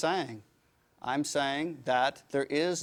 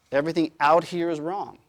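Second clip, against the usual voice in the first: mock dogmatic; 6 dB louder than usual. Mocking closed system mindset.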